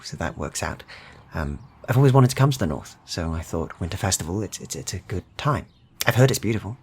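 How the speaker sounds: friendly stranger nosing in on the locals; Midlander trader. Acted. GM voices the trader.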